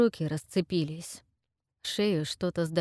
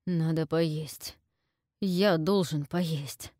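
slow, deliberate words; slow, heavy self-command; slow self-urging; much slower than usual. Acted. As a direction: push each word out slowly. Forcing himself to eat.

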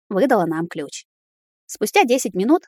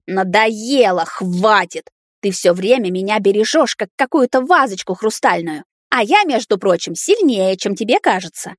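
indignant rant. Acted. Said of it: "словно разъярённая фурия".

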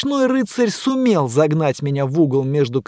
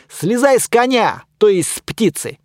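shouted; 6 semitones higher, 3 dB louder than usual. Acted. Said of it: "крикнул я".

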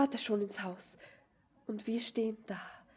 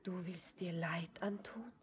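frightened whisper; 4 semitones lower, 9 dB quieter than usual. Acted. Girl fears he'll harm himself.

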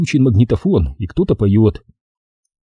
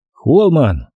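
mildly barked, a bit higher; short, higher-pitched bark; 4 semitones higher than usual. Acted. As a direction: answer with a restrained bark. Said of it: "рявкнул я наконец".

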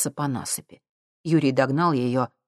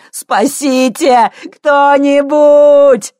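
slow, high, loud cry for help; drawn-out loud call for help; yelling for help; 11 semitones higher, 14 dB louder, much slower than usual. Acted. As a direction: howl it out into the dark. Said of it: "завопил Витька".

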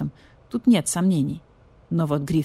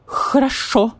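higher, louder grudging agreement; vulture voice; 7 semitones higher, 5 dB louder, slower than usual. Acted. Vulture grudgingly agrees to cat, raised voice. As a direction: give in through trembling indignation.

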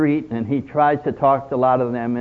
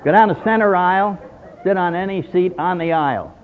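can't keep a straight face while teasing him; laughing usher; 4 semitones higher, faster than usual. Acted. Usher teases overeater.

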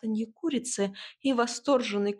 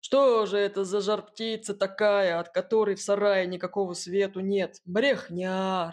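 booming bark. A narrator's reading. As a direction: boom it out, scoffing. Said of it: "раскатисто рявкнул один мужик".

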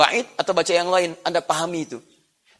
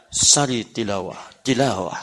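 formal announcer; 8 semitones lower, 4 dB quieter, much slower than usual. Shown as a demonstration. Imitates formal event announcement.

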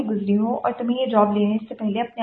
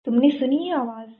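plain reading voice

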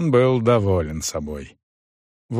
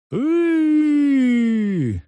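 high drawn-out howl of fear; frightened howl. Acted. Стефан воет от страха, когда Сыч трясёт его. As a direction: wail high in terror. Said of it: "выл Стефан".

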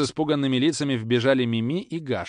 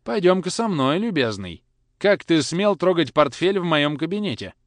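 high, loud stern rebuke; father scolding the boy, loud and high; 6 semitones higher, 6 dB louder than usual. A narrator's reading. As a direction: dress down the boy. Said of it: "строго сказал".

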